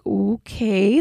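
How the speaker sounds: mock-gasped, drawn-out okay with a rise; gasping okay. Woman retelling her reaction as coworker walks off, gasping okay. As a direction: imitate being taken aback, stretching the word. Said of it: "like, gasping".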